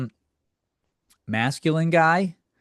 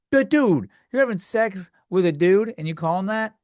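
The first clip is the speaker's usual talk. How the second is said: incredulous; 5 semitones higher than usual. Real, not acted. Outraged rant.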